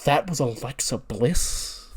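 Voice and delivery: slow, mock-stunned question; shocked, imitated. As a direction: draw it out in pretend shock. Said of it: "He looks so shocked".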